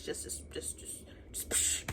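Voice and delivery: trailing off into a near-whisper; lost for words. Real, not acted. Reviewer telling viewers the book left her speechless, fading whisper. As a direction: let the words die away, overwhelmed.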